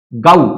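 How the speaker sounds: गाउ with an "au" glide; low, firm गाउ; British O. Shown as a demonstration. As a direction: say गाउ starting on an open A. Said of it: "तो गो का अब क्या लिखेंगे".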